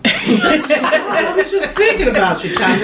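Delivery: high, slow and laughing; mock sweet reply through laughter; laughing sweetly. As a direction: let the laugh carry the words, drawn out. Quoting Christina, laughing.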